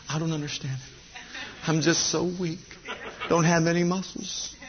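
soft, self-pitying whine; whining weakling. Acted. Preacher mimics a lazy believer whining softly. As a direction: sulk like a weakling who won't train. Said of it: "You say".

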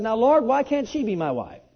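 loud, high plea to the Lord; crying out to God. Retold or imitated. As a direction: cry it out to heaven in retelling. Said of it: "I cried out unto the Lord".

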